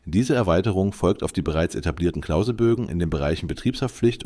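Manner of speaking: AI-generated news read; steady computer newsreader voice; synthetic voice. Real, not acted. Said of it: "mit der synthetischen Stimme". (synthetische Nachrichtenstimme)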